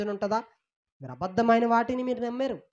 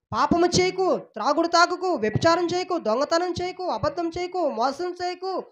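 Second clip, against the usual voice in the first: raised, stern commands in God's voice; God rebuking; 5 semitones higher than usual. Retold or imitated. Preacher voicing God as he rebukes his people. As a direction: scold them like a father forbidding sin. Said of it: "నేను గద్దించాను".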